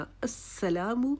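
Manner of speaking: السلام slowly with a rounded u, not o; slow correct recitation. Shown as a demonstration. Teacher modelling السلام slowly. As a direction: draw out السلام. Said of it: "السلام او نہیں پڑھنا".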